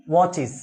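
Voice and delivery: ওয়াচিস said as wo-chis, ending in a clear -is; pronunciation demo. Shown as a demonstration. Teacher models ওয়াচিস for students, clear -is ending. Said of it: "উচ্চারণটা কি হবে?".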